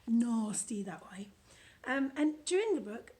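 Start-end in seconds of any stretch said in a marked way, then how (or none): 0.1-1.3 slow, breathy whisper on the nasty word; slow conspiratorial whisper of disgust. Acted. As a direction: hush it like something icky. Disgust aside on bladder topics.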